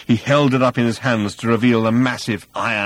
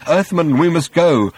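raised, louder urging; nervous; 7 semitones higher, 6 dB louder than usual. A narrator's reading. Old man urging Arthur to leave, nervous. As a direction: press to leave, a touch of nerves. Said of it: "said Slutty Bartfast nervously".

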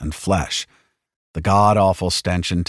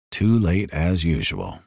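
calm inner voice; 2 semitones lower, slower than usual. Acted. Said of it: "the voice in his head said".

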